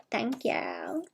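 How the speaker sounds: whispered thanks; whispering. Real, not acted. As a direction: breathe a soft thank you. Soft thanks aside.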